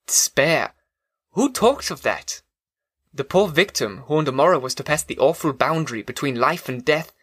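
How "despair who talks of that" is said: hushed cry of despair; anguished whisper. A narrator's reading. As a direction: breathe it out as a whisper. Narrator's inner anguish.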